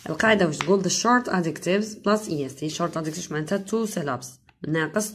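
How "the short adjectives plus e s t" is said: slow, word by word, for copying; slow dictation. Shown as a demonstration. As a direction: spell out the rule slowly for the class. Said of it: "teacher dictates the rule". (إملاء بطيء)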